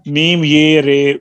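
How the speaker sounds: slow, drawn-out letter by letter spelling; slow spelling demo. Shown as a demonstration. Teacher spells out the word for the student, slowly. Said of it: "یہ میرے کا جوڑ کیجئے".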